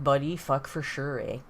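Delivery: light imitation of a Prairies accent; prairie Canadian accent. Ontarian imitating people from the prairies, lightly put-on Prairie accent. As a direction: toss it off like a Prairie local. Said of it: "in the prairies, they're more like".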